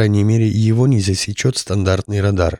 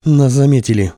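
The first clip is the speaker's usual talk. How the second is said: exhaled, louder alarm; breathless exclaim; 4 semitones higher, 4 dB louder than usual. Acted. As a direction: gasp it out. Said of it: "выдохнул пилот".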